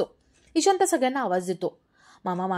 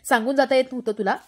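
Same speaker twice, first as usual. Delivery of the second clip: scolding; 5 dB louder than usual. Acted. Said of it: "ओरडतात".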